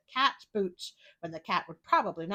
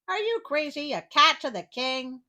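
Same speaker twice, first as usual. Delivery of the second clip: incredulous; 5 semitones higher, 4 dB louder than usual. Acted. Sentry mocks cat seeking king.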